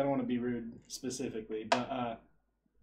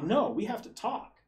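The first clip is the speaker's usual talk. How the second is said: mock angry; 7 semitones higher than usual. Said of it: "she got really mad".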